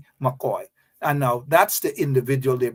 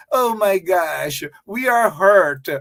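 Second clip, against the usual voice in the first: mock whining; 2 semitones higher, slower than usual. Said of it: "they are going to cry".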